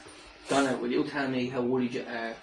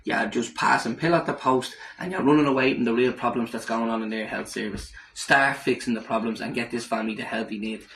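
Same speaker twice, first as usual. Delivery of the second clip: angry call-out. Real, not acted. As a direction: tell the minister off. Vlogger berates health minister.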